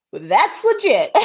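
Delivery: slow, laughing admission; amused, slowed-down give-in; laughing concession. Retold or imitated. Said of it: "So I was like".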